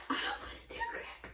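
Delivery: high, airy squeal of frustration; squeaky whine. Real, not acted. Repeating her rant as a squeaky whine. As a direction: squeak it out like a tantrum.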